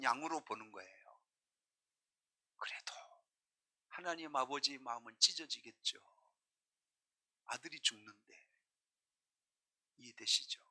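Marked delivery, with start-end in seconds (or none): none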